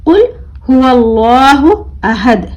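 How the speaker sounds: अहद ending on a vowelless D; stopped final consonant. Shown as a demonstration. Teacher showing pupils the stop on अहद, recited with a vowelless ending. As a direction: recite हुवल्लाहु long, then stop dead on the D of अहद. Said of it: "जज़म लगा कर पढ़ेंगे".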